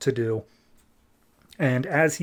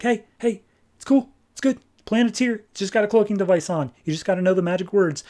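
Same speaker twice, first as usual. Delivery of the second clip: calming John Stewart; 7 semitones higher, faster than usual. Retold or imitated. John calms a choking rookie.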